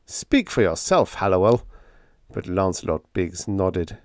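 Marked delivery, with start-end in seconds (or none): 0.1-1.7 understated, scornful put-down; a touch of contempt, pitched a little up. Acted. Narrator rebuking frightened Hallowell, mildly scornful. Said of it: "I said scornfully".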